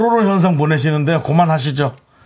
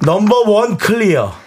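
crew call-out; 5 semitones higher, slower than usual. Shown as a demonstration. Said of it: "다시 한 번 해주세요".

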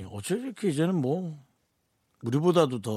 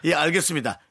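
amused agreement; laughing. Real, not acted. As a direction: laugh through the yes. (웃으면서 대답)

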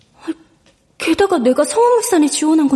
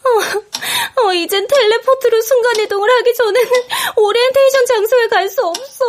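despairing; 5 semitones higher than usual. Acted. Despair after missing orientation.

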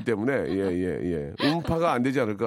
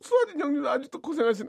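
fond; 11 semitones higher than usual. Real, not acted. Fond exclamation.

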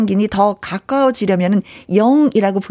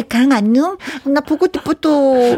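put-on lisping baby talk; 3 semitones higher than usual. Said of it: "혀가 짧아질까요?".

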